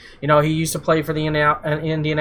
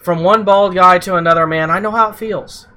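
wrestling promo; 3 semitones higher than usual. Retold or imitated. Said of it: "I like how you use that generic wrestler voice, the Roman Reigns".

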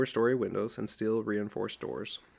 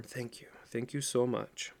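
mild break in the voice; 5 dB quieter than usual. Acted. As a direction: hold back tears on each thank you. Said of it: "Her voice broke".

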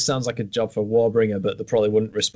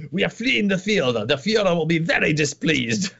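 put-on higher, lightly accented fleeing officer; game German soldier; 7 semitones higher than usual. Quoting a game soldier to a friend, higher mock voice. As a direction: sound primly worried about the Führer. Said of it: "He just says".

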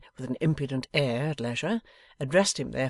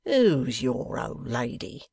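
slow, drawn-out scornful question; a hint of a bullying rogue; scornful Wegg; much slower than usual. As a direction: dismiss her lightly with scorn.

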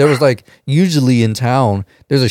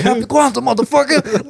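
retold yell, high-pitched; loud yell. Retelling the prank shout to friends, high mock yell. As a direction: scream it out the window, hammed up. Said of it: "Like, real loud and shit".

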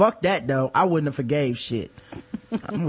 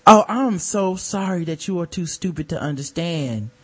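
mock-sincere apology with a patronizing edge; condescending. Fake apologizer to the host, condescending. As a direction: apologize as if talking down to someone. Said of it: "are still condescending to me".

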